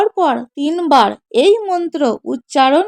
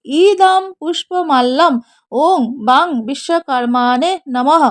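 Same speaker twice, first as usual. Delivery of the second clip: mantra recitation. Shown as a demonstration. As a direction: intone it like a priest at puja. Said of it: "মন্ত্র উচ্চারণ করে বলবেন".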